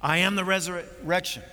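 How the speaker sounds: firm, punched declaration; confronting, head-on. Retold or imitated. Jesus confronts Martha's heart head on, boldly declaring. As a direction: hit it head on, with confidence. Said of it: "he confronts it".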